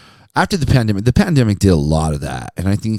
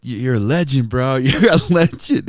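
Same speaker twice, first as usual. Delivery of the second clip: louder, higher hype from a fan; lightly imitated rapper; 6 semitones higher, 4 dB louder than usual. Local rapper greets radio host, lightly imitated hype. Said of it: "he's just like".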